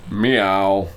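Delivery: a voiced meow, fairly loud; cat meow. A narrator's reading. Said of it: "my father said".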